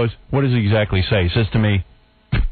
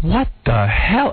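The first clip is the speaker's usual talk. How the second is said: slow, drawn-out disbelief, pitched up; lightly acted bafflement, stretched slowly; stunned what the hell; 5 semitones higher, much slower than usual. Retelling the photographer ambush to the host, slow stunned disbelief. Retold shock blinded by camera flash.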